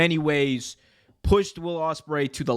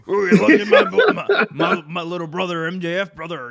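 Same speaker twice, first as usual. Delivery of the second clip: loud, high Hulk Hogan growl; over-the-top wrestler promo voice; Hulk Hogan impression; 4 semitones higher, 7 dB louder than usual. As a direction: ham it up like Hulk Hogan, brother. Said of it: "doing his best Hulk Hogan impersonation".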